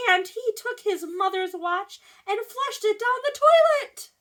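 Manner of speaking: loud, rising storybook excitement; animated read-aloud. A narrator's reading. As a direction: build the toddler chaos for young listeners. Reads story to children.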